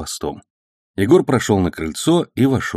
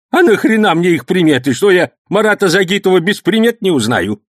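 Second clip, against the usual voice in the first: put-on high, loud excited old man's story; heated old man; 11 semitones higher, 5 dB louder than usual. A narrator's reading. Old man heatedly telling the policeman about the attack. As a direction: rattle it off fired up.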